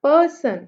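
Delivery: teacher's emphatic PER-son in "person"; stress on first syllable. Shown as a demonstration. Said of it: "सन को हम लोगों ने बहुत soft बोला".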